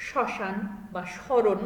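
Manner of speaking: শ্মশান and স্মরণ slow, a little nasal; nasal pronunciation. Shown as a demonstration. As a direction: say শ্মশান, স্মরণ slowly through the nose. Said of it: "অনুনাসিকভাবে উচ্চারণ করতে হবে". (অনুনাসিক শ্মশান স্মরণ)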